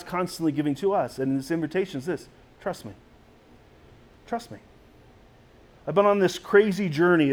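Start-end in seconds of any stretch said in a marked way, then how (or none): 2.6-2.9 soft invitation. Acted. Voicing God's gentle invitation. 4.3-4.6 much softer and higher; soft, lifted echo. Acted. Voicing God's gentle invitation.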